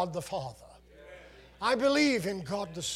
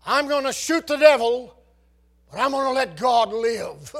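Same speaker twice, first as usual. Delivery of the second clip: put-on little boy's toy-gun threat; 6 semitones higher, 10 dB louder than usual. Little boy with toy pistol.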